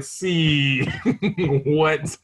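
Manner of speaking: loud laughing what; real laughing exasperation; laughing disbelief. Real, not acted.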